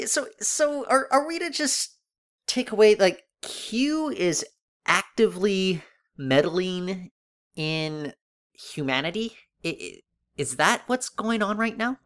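high-pitched, halting disbelief; baffled questioning. Real, not acted. Podcaster asking co-host about Q's meddling, baffled.

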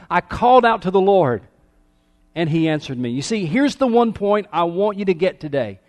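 forceful, urgent sermon delivery; impassioned preaching. Real, not acted. Pastor urging everybody to take one thing home, impassioned preaching. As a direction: drive the main point home to everybody.

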